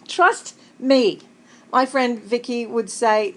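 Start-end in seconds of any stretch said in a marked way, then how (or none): 0.1-1.2 louder, insistent "Trust me"; emphatic. Real, not acted. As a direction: lean hard into "Trust". Promising funny stories.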